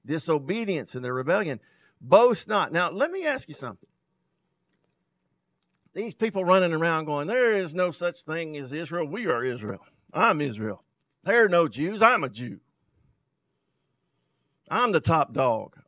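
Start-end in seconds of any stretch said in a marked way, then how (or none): 2.0-2.7 emphatic boast not. Acted. Preacher hammering the key phrase. 7.3-15.8 mock boaster. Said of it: "That's boasting".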